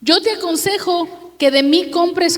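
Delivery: "Yo te aconsejo" lifted high, said as fatherly counsel; earnest advice. Shown as a demonstration. Preacher reading the Lord's counsel to the church, earnest. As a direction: offer "Yo te aconsejo" as a heartfelt plea. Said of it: "Le da un consejo el Señor".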